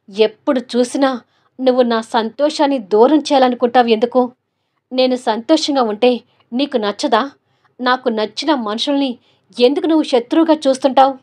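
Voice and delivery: angry accusation. Acted. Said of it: "కోపంగా చూస్తూ".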